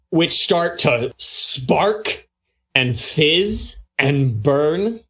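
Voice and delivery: slow, drawn-out scene setting; game master's narration. Acted. Game master describes glowing blood in the runes, slow dramatic narration. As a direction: let each image land, stretching key words.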